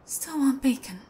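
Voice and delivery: breathy whisper. Real, not acted. Intruder whispering as he is offered bacon. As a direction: whisper it as if ashamed to ask. Tempted by captor's food.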